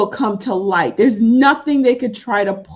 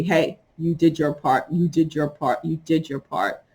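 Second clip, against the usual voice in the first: reassuring inner voice; 3 semitones lower, 4 dB quieter than usual. Pretend. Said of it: "my oversoul keeps telling me".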